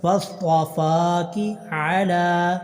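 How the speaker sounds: slow drawn-out tajweed chant; slow tarteel recitation; Quran recitation. Shown as a demonstration. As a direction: recite each vowel long and measured. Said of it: "لام کو لمبا کریں گے".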